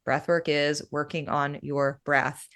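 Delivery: "breath work is working on your breath" said slowly, each word set apart; slow down and separate "breath", "work", "working", "breath". Shown as a demonstration. Breathwork guide breaking down the term, slow and deliberate on "breath work is working on your breath". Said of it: "If you just take those two words".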